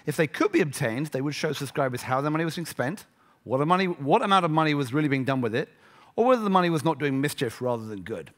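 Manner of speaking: put-on reading aloud in a plummy British accent; lightly put-on posh British accent. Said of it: "in my plummy British accent".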